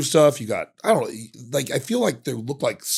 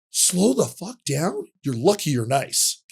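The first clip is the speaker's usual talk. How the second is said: slow, raised warning; mock stern cop warning; 4 semitones higher, slower than usual. Cop letting the speeder off, slow stern warning. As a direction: lay down the law slowly, half-amused.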